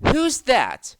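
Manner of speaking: high squeaky little voices; squeaky trucks. A narrator's reading. Trucks startled by a new engine, squeaking high. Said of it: "they squeaked".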